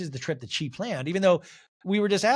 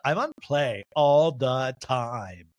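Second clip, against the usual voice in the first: slow drawl; 3 semitones lower, much slower than usual. Retold or imitated. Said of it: "she's like".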